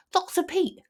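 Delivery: a pained little snake complaining; lightly groaning patient. A narrator's reading. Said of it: "Jake groaned".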